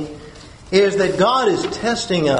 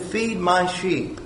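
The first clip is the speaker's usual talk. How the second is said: softer, slow and calm; gentle command; 6 dB quieter, slower than usual. Acted. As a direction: say it slowly and tenderly. Jesus gives the command.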